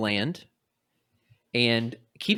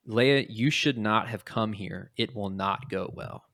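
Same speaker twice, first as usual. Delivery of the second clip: ominous warning; slower than usual. Retold or imitated. Luke warns Leia not to come, slow and ominous. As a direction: make it sound like a dire omen. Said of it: "Like, it's very ominous".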